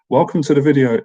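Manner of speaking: intro line collapsing into giggles; breaking into laughter. Shown as a demonstration. Vlogger attempting his intro, cracking up laughing. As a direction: try to say it but laugh. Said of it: "I can't even say it".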